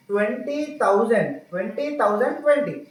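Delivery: each word spaced out for writing down; slow dictation. Shown as a demonstration. Tutor dictating the number to a child, slowly. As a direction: read it slowly so the child can write twenty thousand. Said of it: "in figures అన్న".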